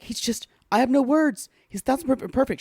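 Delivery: high, overwhelmed gushing imitation; retold freak-out. Retelling her first look at him, high mock freak-out. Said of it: "she's freaking out".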